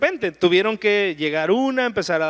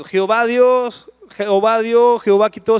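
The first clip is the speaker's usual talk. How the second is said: proclaiming loudly; 7 dB louder than usual. Acted. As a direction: preach the verse out with full force. Proclaims Job's verse as a weapon. (proclamado en voz alta y lenta)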